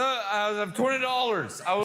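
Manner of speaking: mock drunk woman's voice; put-on audience-member impression; imitating audience woman. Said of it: "This is such a good impression".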